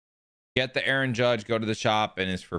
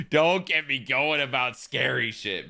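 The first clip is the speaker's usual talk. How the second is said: slow, put-on voice, stretched out; mock spooked drawl; 3 semitones higher, slower than usual. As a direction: say it like you're pretending to be scared. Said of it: "laughs, then redoes line".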